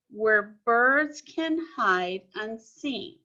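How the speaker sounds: slow, careful read of the line; slow poem reading. Shown as a demonstration. Teacher reading the poem line slowly to the class. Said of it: "Let's look at line four".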